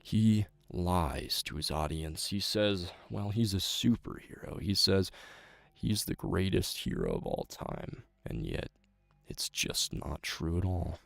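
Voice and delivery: a lightly voiced brooding orator; dramatic monologue. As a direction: condemn the fraud superhero solemnly. Acted villain-denouncing monologue.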